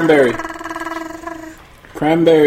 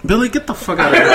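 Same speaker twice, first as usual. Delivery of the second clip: fast, laughing shove-off; laughing protest; much faster than usual. Real, not acted. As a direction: brush it off while laughing.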